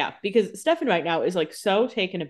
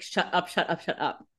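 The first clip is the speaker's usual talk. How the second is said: hushed mock pleading; 5 dB quieter than usual. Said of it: "Caroline's like".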